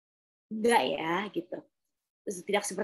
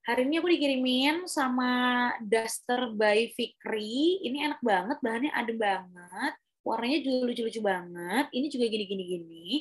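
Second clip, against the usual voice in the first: influencer imitation. Coach imitating an influencer's Instagram Story, samey lilting delivery. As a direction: mimic an influencer's repetitive sales lilt. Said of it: "kalau kita ngeliat influencer deh".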